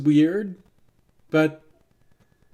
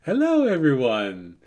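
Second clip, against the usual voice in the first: gnome. Acted. Game master as a gnome greeting everyone, lightly voiced gnome. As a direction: sing out a tentative hello, like a gnome. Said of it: "It's the voice of a gnome".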